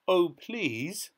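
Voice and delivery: high, drawn-out plea; begging. A narrator's reading. Dorothy begging the keeper, imploring. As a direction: implore with a rising pitch. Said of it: "begged Dorothy".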